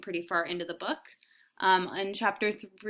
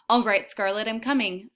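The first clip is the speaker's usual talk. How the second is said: sophisticated voice; 3 semitones higher, 8 dB louder than usual. Acted. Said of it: "in a sophisticated voice".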